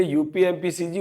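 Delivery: यूपी, एमपी, सीजी as one joined group; said all together. Shown as a demonstration. Teacher drills three state names with students, said all together. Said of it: "तीन राज्य एक साथ बोल दीजिए".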